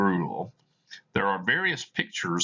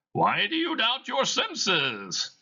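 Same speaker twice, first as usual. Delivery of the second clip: ghostly Marley voice; slower than usual. Acted. Dead partner answering Scrooge, eerie high ghost voice. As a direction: moan it out like a spirit.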